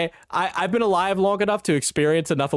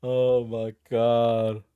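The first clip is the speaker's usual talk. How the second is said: put-on mean girl voice; 3 semitones lower, much slower than usual. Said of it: "you're getting your mean girl voice on there".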